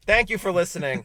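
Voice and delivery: announcer voice. Pretend. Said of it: "I'm still in the announcer voice".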